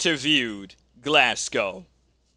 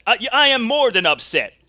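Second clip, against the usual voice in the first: upset wrestler; 6 semitones higher, 4 dB louder, faster than usual. Acted. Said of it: "I understand that you are upset".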